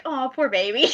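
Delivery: retold "aww" of sympathy; cooing sympathy. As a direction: coo it like soothing a little one. Retold sympathetic cooing over sick actor.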